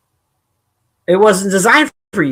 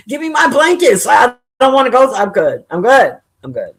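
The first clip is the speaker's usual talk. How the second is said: mock dude refusing; 4 semitones higher than usual. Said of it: "I can't imagine a dude".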